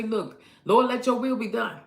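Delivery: loud prayer. Retold or imitated. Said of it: "shut your mouth and say".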